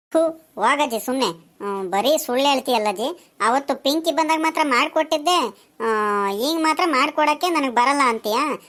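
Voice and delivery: mildly huffy grandson; acted sulky anger. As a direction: protest crossly at grandma, without shouting. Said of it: "ನೋಡ್ದ ಈ ಹುಡ್ಗನ್ ಕೋಪ". (ಮುನಿಸಿಕೊಂಡ ಮೊಮ್ಮಗನ ಸಣ್ಣ ಕೋಪ)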